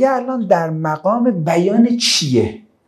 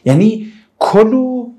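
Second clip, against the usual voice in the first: کلوا drawn out slowly and a touch louder; stress on کلوا; 5 semitones higher, 3 dB louder, slower than usual. Shown as a demonstration. Teacher explaining the verse to class, slow stress on کلوا.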